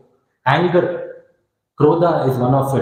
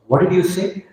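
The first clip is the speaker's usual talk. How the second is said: higher, indignant retold question; mild retold anger; 5 semitones higher than usual. Angered Alexander confronts the sage, mildly indignant. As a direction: demand it, lightly acting an angered king. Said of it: "he got very angry".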